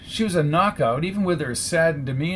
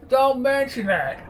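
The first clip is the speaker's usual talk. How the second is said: chuckling reply; 9 semitones higher than usual. Acted. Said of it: "still chuckling".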